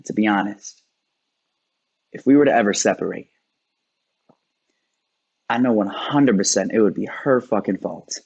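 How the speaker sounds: measured spoken-word delivery with long pauses; slam poem. Acted. Poet confessing worst case scenarios to an audience, measured spoken word. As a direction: pace it as stage poetry, holding back before the punchline.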